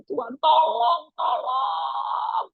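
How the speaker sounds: pleading prayer. Retold or imitated. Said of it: "saya itu tersungkur sampai bilang gini".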